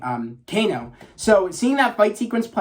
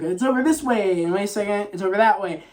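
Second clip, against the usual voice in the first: higher-pitched mock certainty, then second-guessing; confused; 3 semitones higher than usual. Kano failing to find which way to go, retold confused. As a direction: play someone muddling the directions. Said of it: "He's so confused".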